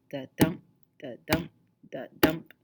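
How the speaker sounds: "the dump" thumped out like a heartbeat, "dump" stressed; light "the", heavy "dump", pause between pulses; heartbeat rhythm. Shown as a demonstration. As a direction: beat each "the dump" like a heart. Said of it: "it sounds like a heartbeat".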